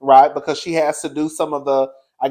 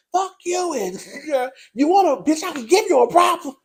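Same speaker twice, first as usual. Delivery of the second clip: mock Heavenly; 11 semitones higher than usual. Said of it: "And Heavenly was like".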